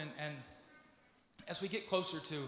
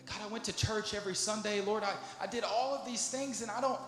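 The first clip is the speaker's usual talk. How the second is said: distressed pleading, rising higher as it builds; pleading their case; 3 semitones higher than usual. Acted. Rejected churchgoer pleading with God at the throne, increasingly distressed. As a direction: plead in mounting disbelief, without real crying. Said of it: "they're crying and they're trying to plead their case".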